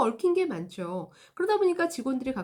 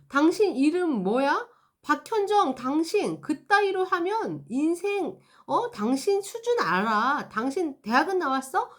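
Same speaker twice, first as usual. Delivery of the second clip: slow, loud, higher contemptuous tirade; angry attacking customer; 5 semitones higher, 4 dB louder, slower than usual. Acted. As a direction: belittle the agent by name. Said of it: "나를 막 공격한다". (상담원 이름을 부르며 깔보는 화난 고객의 느리고 큰 목소리)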